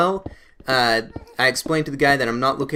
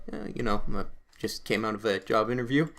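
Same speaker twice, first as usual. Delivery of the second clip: mumbled soft and small, playing his nervous younger self; timid reply; 4 semitones lower, 9 dB quieter than usual. Teen answering a scary stranger at the bus stop, soft and timid. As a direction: shrink away while answering.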